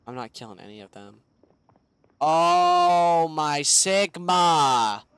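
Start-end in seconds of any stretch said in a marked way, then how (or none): 2.2-5.0 loud drawn-out shock; shocked exclamation. Real, not acted. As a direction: blurt it out, stunned. Shocked at zombie horde.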